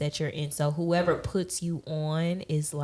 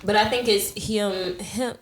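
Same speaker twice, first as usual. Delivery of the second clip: southern accent; 4 semitones higher than usual. Real, not acted. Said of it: "Ooh, my southern accent came out".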